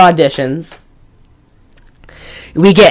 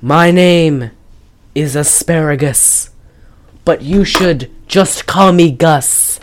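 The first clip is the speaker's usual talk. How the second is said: lightly mocked spoken-word performance; a hint of a ponderous theatrical recital; Ian McKellen; 3 semitones lower, slower than usual. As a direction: recite it in broken, halting phrases. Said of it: "William Shatner spoken word album performance".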